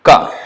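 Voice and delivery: ka crisply from the back of the tongue; unvoiced ka demo. Shown as a demonstration. Teacher demonstrating ka to students. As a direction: model ka for the class.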